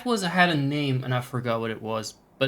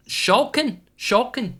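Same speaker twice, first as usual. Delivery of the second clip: puzzled repeat; 11 semitones higher, 4 dB louder, slower than usual. Real, not acted. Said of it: "Just a slightly skulking".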